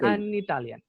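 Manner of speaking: "an Italian" with the n dividing the words; linking N. Shown as a demonstration. Teacher showing how words get divided, "an Italian" with linking n. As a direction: say "an Italian", n leading into the vowel. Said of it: "pueda dividir las palabras".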